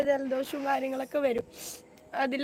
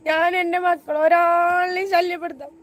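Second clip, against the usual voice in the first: distressed outburst; 4 semitones higher, 5 dB louder than usual. Real, not acted. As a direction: voice rising and louder in real distress. Distraught victim venting about assault.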